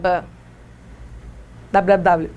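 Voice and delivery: ordinary talk, nothing marked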